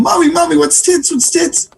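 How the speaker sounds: put-on very high, insistent little-kid voice; little boy voice. Amazed Johnny running to his mom, high child voice. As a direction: pester mom in a squeaky child voice.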